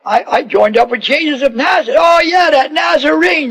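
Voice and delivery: shouted, high Nazarene; excited exchange. Acted. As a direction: friends shouting over the water. Excited exchange between fishermen.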